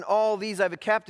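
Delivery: akcent na „all these”, mocniej i wyżej; "all these" mocniej, wyraźnie uniesione; stress on all these. Shown as a demonstration. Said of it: "the emphasis on".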